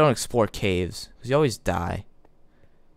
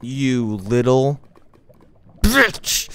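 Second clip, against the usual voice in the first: angry yell; 7 dB louder, much slower than usual. Real, not acted. Gamer cursing the skeleton that killed him, furious. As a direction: spit the insult at the mob.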